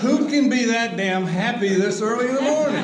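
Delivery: half-laughing at someone's irritating morning cheer; laughing grumble. Retold or imitated. Not-a-morning-person lawyer grumbling at his cheerful new partner, laughing.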